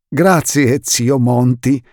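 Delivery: stiff, slow, formal thanks; slow, stiff politeness. Acted. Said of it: "disse il signor Poe rigido".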